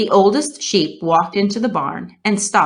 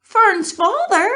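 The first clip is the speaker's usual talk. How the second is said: high, loud, slow tearful disbelief; stunned piglet crying out; sobbing; 5 dB louder than usual. A narrator's reading. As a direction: let it break into a sob. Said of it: "sobbed Wilbur".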